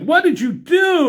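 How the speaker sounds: high startled cry; alarmed question. Retold or imitated. Cho startled as Shauna suddenly drops from the tree. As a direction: voice jumps up in alarm.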